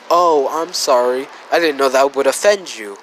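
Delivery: mock apology, lightly sarcastic. Deku answers an angry Bakugo, sarcastic. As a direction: feign a sorry tone, quickly at the end. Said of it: "would say sarcastically".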